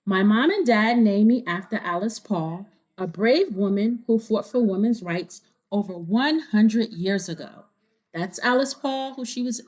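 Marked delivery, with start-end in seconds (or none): 0.0-7.6 clear, lively storybook reading; reading to children. A narrator's reading. Reader telling kids the story, bright storybook narration. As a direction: read it to a room of kids. Reading picture book aloud.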